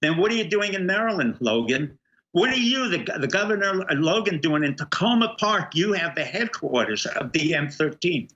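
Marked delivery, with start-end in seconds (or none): 0.0-5.7 raised-pitch, accusing questions; indignant challenge. Acted. Guest confronting the governor over the gangs, indignant. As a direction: demand an answer from an absent official.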